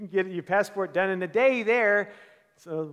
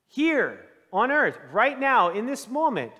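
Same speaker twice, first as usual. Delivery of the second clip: slow, louder, higher declaration; preaching emphasis; 4 semitones higher, 6 dB louder, slower than usual. Acted. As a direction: drive each phrase home to the congregation.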